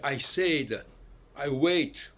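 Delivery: "said" and "wait" with the French "è" vowel; French-style ai vowel. Shown as a demonstration. Lecturer showing how the English say ai, French-style vowel. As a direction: say the ai in "said" and "wait" à la française. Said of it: "ils prononcent le A I à la française".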